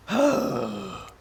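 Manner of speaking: heavy acted sigh; loud exhale in character; exaggerated sigh.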